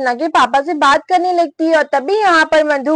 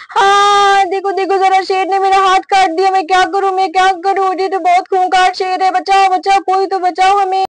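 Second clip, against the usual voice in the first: panicked wailing; 4 semitones higher than usual. Acted. Sister bitten by lion begs for rescue, panicked. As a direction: cry for rescue in a high monotone rush.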